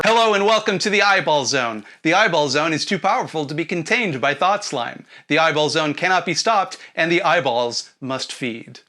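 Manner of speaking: talking eyeball. Acted. Eyeball zone voice takes over.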